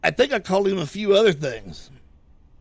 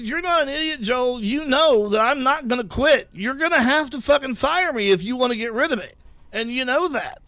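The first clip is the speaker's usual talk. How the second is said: retold anger; 5 semitones higher, 3 dB louder than usual. Retold angry phone argument with boss.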